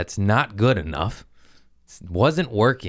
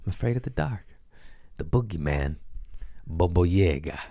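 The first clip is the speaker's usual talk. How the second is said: mock scared; 5 dB quieter than usual. Mock scared self-quote.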